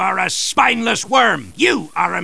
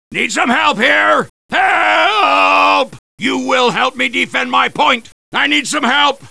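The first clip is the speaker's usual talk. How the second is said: calling for help; 4 semitones higher than usual. Acted.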